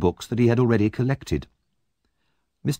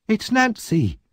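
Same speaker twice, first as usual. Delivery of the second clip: blurted out; 12 semitones higher, slower than usual. A narrator's reading. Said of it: "he said without thinking".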